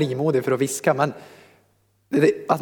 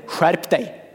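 mock inner scold; 2 semitones higher than usual. Preacher posing as the wrong inner voice, mock scolding. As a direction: imitate a voice that is not the Spirit's. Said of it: "inte samma röst som den han vittnar med".

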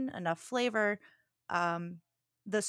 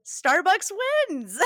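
slow, laughing through the words; giggling announcement of the winner; 12 semitones higher, 9 dB louder, slower than usual. Real, not acted. Nat one rolled, Starbucks wins.

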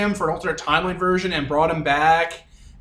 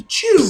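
high sharp cutting noise; snipping sound effect; 4 dB louder than usual. Retold or imitated. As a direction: snap it out like clippers closing. Imitating hedge clippers snipping.

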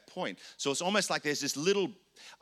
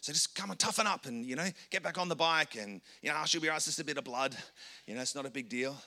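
dismissive parent; 2 semitones higher, faster than usual. Retold or imitated. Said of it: "We're like".

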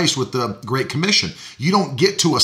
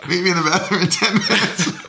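laughing; 5 semitones higher than usual. Retold or imitated. Repeating the creepy invite.

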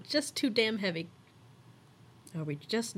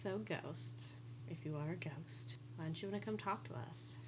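talking to a ghost; 3 semitones lower, 10 dB quieter than usual. Real, not acted. Coaxing the ghost softly.

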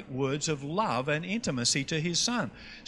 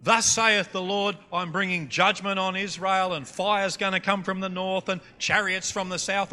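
put-on mildly declaimed Old Testament judgment; mock prophet; 3 dB louder than usual. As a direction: proclaim doom like a prophet, lightly parodied. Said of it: "This is totally different to that".

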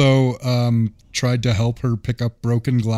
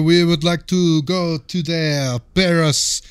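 mock French accent. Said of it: "That's pretty good".

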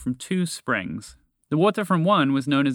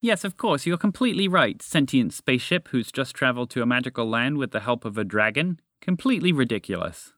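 sarcastic toucan comeback, pitch easing down; sarcastic retort. Acted. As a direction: agree with heavy irony. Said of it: "retorted Mister Toucan sarcastically".

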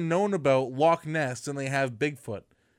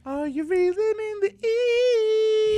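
high sing-song; 5 dB louder, slower than usual. Acted. Playful echo of reeling in.

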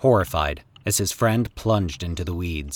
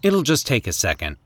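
confident; 5 semitones higher than usual. Acted. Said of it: "Jimmy said confidently".

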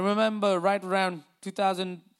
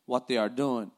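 scripture reading; 2 semitones lower than usual. Acted. Reads the crucifixion passage aloud.

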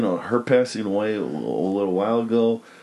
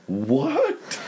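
indignant Cher; 10 semitones higher than usual. Retold or imitated. Imitating Cher failing test.

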